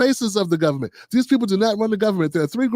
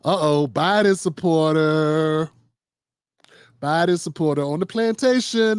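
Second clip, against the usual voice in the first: slow mocking jeer; 4 semitones lower than usual. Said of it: "So what, she was".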